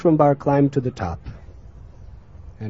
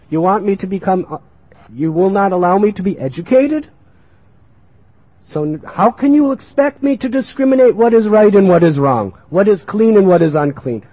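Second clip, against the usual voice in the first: louder, higher challenging questions; indignant protest; 4 semitones higher, 6 dB louder than usual. Acted. Child protests to mother about no schooling, indignant. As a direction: pile up the accusations forcefully.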